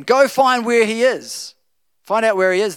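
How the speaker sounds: king barks orders at his officers; commanding king. Acted.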